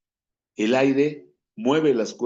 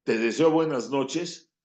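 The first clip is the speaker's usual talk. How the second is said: sincere goodnight wish; 3 semitones higher than usual. Shown as a demonstration. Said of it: "No es lo mismo decir".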